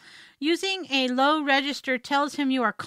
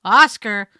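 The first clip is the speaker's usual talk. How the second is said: Oscar low, loud and falling; loud, stern-sounding Oscar; firm falling inflection; 3 semitones lower, 10 dB louder than usual. Shown as a demonstration. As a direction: call Oscar firmly, dropping at the end. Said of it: "his name in a variety of inflections".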